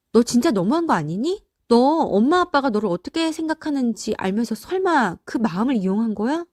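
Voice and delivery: reproachful, incredulous questioning; indignant sibling. Acted. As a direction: confront a younger brother in disbelief. Sibling confronts the youngest son. (동생을 어이없다는 듯 따져 묻기)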